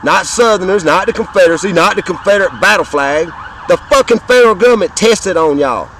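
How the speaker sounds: indignant rising rant; heated outburst. Real, not acted. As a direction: hammer the government with real anger.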